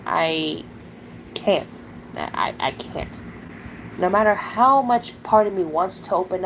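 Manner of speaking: real upset, voice failing; choked up. Real, not acted. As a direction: struggle to get the words out. Admitting trust issues, breaking.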